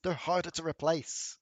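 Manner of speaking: annoyed host scolding guests; fed-up complaint about the walls; exasperated NPC. Acted.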